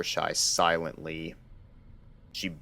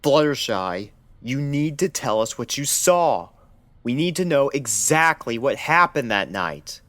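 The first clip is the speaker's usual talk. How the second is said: urgent pressing; 8 semitones higher, 6 dB louder than usual. Acted. Doctor presses Fluttershy urgently.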